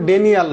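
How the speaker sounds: "ডেনিয়াল" with an opening "de" and "ni" in the middle; mispronounced denial. Shown as a demonstration. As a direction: say "ডেনিয়াল" as DEN-i-al, the mistaken way. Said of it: "pronunciation হবে ডিনায়াল". ("ডেনিয়াল", ভুল উচ্চারণে "ডে-নি-য়াল")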